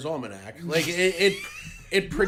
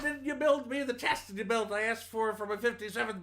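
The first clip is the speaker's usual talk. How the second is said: very high, hammed-up comedian impression; bad celebrity impersonation; Bill Cosby; 9 semitones higher than usual. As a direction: stretch it into a mock complaint, pitched way up. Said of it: "the worst Bill Cosby impression".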